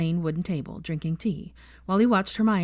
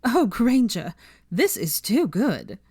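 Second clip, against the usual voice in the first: louder, higher, slow gloating; gleeful taunt; 5 semitones higher, 4 dB louder, slower than usual. A narrator's reading. Pansy gloating over Hermione's secret, gleeful. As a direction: relish the gossip. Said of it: "with a cackle".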